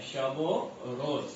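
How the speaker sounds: "शब व रोज" joined as shab-o-roz, slow and careful; linked reading. Shown as a demonstration. Teacher repeating the model pronunciation for students, slowly. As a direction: join the वाव onto शब, unhurried. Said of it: "तलफ़ुज़ इस तरह से आएगा".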